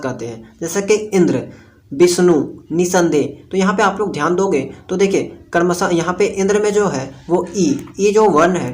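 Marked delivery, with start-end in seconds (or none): 0.9-3.5 slow examples, leaning on the first syllable of इंद्र, विष्णु, निसंदेह; stress on first syllables. Shown as a demonstration. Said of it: "जोर से धक्का लगाना पड़ता है". 7.5-8.1 ई drawn out slowly with a push; stressed vowel. Shown as a demonstration. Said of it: "जोर से धक्का लगाना पड़ता है".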